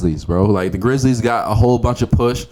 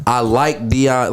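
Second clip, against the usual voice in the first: slow coworker impression; much slower than usual. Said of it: "the first thing he said was".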